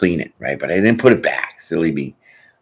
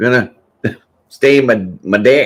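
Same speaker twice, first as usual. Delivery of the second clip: put-on raised, high Australian accent, "deck" sounding like "dick"; 6 semitones higher, 6 dB louder than usual. Recalling a stain commercial, showing how Australians say deck: Australian accent. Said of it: "it's not deck is the way they say it".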